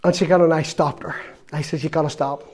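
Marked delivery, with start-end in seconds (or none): 1.8-2.4 heartbroken plea. Retold or imitated. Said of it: "Oh, my heart was breaking".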